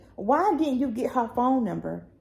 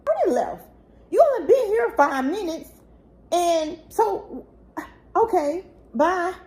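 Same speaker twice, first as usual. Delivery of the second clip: heated retort; 6 semitones higher, 4 dB louder than usual. Retold or imitated. Angry retort to biological father.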